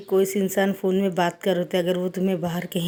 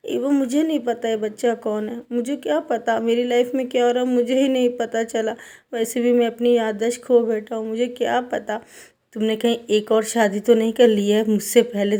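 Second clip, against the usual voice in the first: flustered protest; 4 semitones higher than usual. Retold or imitated. Wing tells Evo he knows nothing of the child, higher and flustered. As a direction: throw up your hands, he has no clue.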